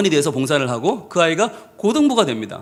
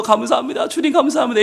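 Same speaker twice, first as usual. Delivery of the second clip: tearful thanks; 6 semitones higher than usual. Retold or imitated. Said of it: "울면서".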